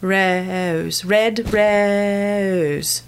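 "Rose" with an eh glide before the O; "red rose" said with a London eh-O. Shown as a demonstration. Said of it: "has the eh prefix right before the O".

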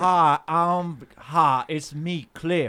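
lightly voiced slow Southern character; Cliff. Friend hijacks the couple's bit, a slow Southern character. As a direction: introduce yourself in a hesitant, drawn-out Southern voice. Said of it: "he's Cliff and I'm Darlene".

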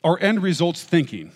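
a hint of an old lecturer quoting; playing Freud reading his own words, barely changed; imitating Freud. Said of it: "I don't know if he talked like this. I'm doing my best".

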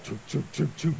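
imitated sinking-engine chug; chugging noise. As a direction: chug along in short puffs. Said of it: "Just chugging under, like".

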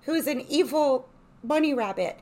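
high-pitched cartoon rabbit voice; high cartoon character voice; cartoon evil bunny. Shown as a demonstration. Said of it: "like, cartoon voice".

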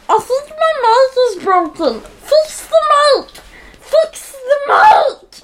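high whining shout; frantic whiny yell. Real, not acted. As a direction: yell it, near tears. Kid yelling about broken mouse.

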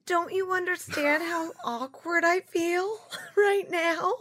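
high, giggling awkward question; can't keep a straight face; laughing through it. Acted.

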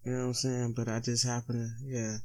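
stoned. Real, not acted. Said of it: "I'm high as pigeon shit".

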